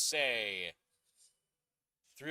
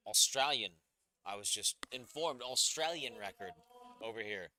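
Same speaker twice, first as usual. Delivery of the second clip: a bad, hammed-up Australian accent; mock Australian twang on the record call; horrid Australian accent. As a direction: fake Australian accent, deliberately awful. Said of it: "I say with an absolutely horrid accent".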